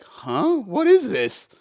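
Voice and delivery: high, loud startled huh; like someone just hit by a flashbang, lost; bewildered what-is-this, ears ringing; dazed confusion. Retold or imitated. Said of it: "That was me, just like".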